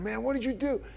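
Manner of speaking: mild mock yell at a friend. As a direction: pitch jumps up, blaming him. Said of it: "I start yelling at my friend".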